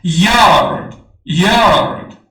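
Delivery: یارد sounded "yard" for learners; English pronunciation demo. Shown as a demonstration. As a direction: say یارد as "yard", starting with a y glide.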